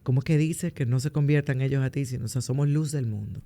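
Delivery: hoarse, rough voice from beyond the grave. Real, not acted. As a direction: talk through a hoarse throat. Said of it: "No con esta voz de ultratumba". (voz ronca de ultratumba)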